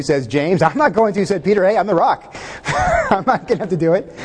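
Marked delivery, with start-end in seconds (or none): 0.6-1.2 higher-pitched mock protest; mock refusal. Disciples squabble over washing feet. 1.6-4.1 hammed-up boastful refusal, higher pitched; Peter.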